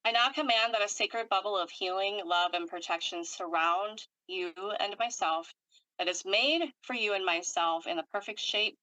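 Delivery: measured, solemn healing command; list-like energy healer's recitation; ritual invocation. Real, not acted.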